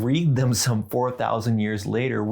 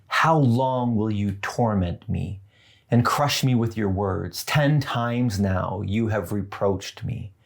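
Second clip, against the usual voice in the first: scripture reading. Acted. Reads Job's words aloud.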